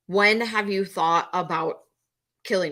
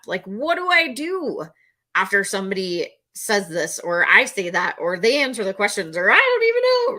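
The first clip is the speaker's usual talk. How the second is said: panicked rambling; 2 semitones higher than usual. Retold or imitated. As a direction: spill the questions out in a rush. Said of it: "Panicking, panicking".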